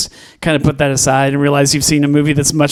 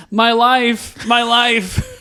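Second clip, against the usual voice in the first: mock scream; 8 semitones higher, much slower than usual. Retelling a character running from the chair, high mock scream. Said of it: "and he screams".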